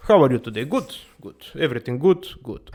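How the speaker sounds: ordinary talk, nothing marked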